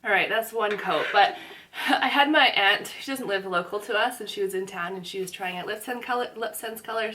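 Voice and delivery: talking with lips held apart during lipstick; can't close the lips, words come out open-mouthed; mouth propped open. Real, not acted. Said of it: "Sorry, I can't close my mouth".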